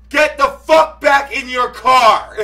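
loud, high, drawn-out command; angry shouted order. Retold or imitated. Driver ordering raging man back inside, furious shout. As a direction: yell each word slowly across the road. Retold confrontation in the street.

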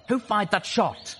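high, loud, slow commanding shout; barked demand. A narrator's reading. Skydive demands who fired, loud commanding bark. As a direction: bark the question at the whole group. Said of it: "Skydive barked".

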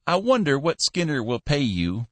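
put-on high old voice, thinking aloud; musing old Cappy. Old boss musing to the clerk, high voice. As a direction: muse it in the old man's voice. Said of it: "he mused".

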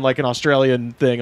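ordinary delivery

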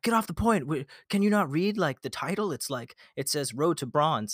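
shrill it like an annoyed teammate; mocking teammates. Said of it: "they were like".

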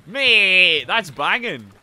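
loud, high-pitched enthusiasm; thrilled, booming praise; excited shouting. Real, not acted. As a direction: shout your congratulations. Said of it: "Sorry for shouting".

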